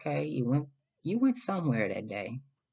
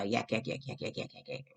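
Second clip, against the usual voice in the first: mocking chatter; 6 dB quieter than usual. Mocking her endless chatter.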